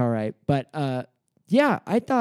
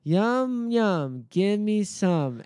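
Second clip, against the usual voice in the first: higher, drawn-out imitation of a dim character; deadpan, dumb take on a singer; 6 semitones higher, much slower than usual. Turning to the partner before making out, deadpan dumb voice. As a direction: play it stupid with a straight face. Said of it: "so deadpan and so s-, stupid".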